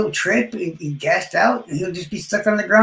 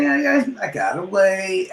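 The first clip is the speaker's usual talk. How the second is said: imitating Prof; 3 semitones higher than usual. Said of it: "Prof keeps telling me".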